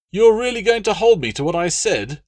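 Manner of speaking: high, loud aggrieved noble; pompous Roman legate, put out; indignant legate. Acted. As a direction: protest like a spoiled patron. Latius incredulous.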